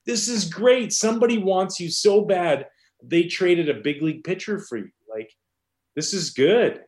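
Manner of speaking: high, upbeat pep talk in imitation; giggling coach. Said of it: "And he starts giggling".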